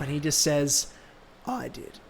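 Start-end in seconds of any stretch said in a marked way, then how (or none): 1.4-2.0 very hushed smug confession; soft, gloating villain line; proud villain. Acted. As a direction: barely voice it, savouring it. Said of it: "he's proud of himself".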